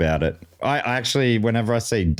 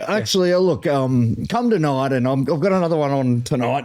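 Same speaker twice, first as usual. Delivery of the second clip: higher-pitched mock protest; defensive; 5 semitones higher than usual. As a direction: act stung, stumbling through excuses. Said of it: "Get real defensive".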